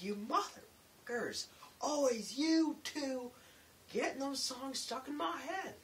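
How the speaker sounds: high, loud, drawn-out imitation rant; mock exasperated yell. Coworker walking by the two singers, mock exasperated yelling. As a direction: wail the complaint slowly and loudly. Tim's outburst at the singing pair.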